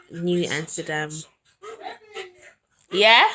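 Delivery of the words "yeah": loud, raised call to someone in another room. Real, not acted. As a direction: shout it across the flat. Calling out to someone off-camera.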